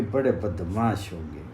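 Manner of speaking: distant echo answering the curse. Acted. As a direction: let it return faint from far away. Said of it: "तो उधर से भी आवाज आई कि".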